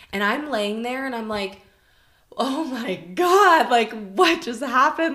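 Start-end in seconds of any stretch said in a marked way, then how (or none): 2.4-5.1 stunned awe. Retold or imitated. Retelling her stunned reaction.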